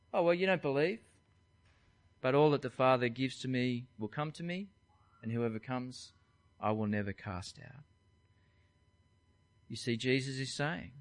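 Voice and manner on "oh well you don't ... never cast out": matter-of-fact. Shown as a demonstration. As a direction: say it simply, no need to convince. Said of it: "matter-of-fact response from Jesus".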